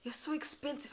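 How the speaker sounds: high whiny "so expensive"; hammed-up complaint; mock complaining customer. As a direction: sneer at the price in a put-on voice. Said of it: "complaining and saying".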